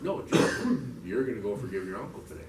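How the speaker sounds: firm correction, punched at the start; mildly insistent voice in his head; insistent inner voice. Retold or imitated. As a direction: overrule him, then settle into the order. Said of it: "And I hear this voice".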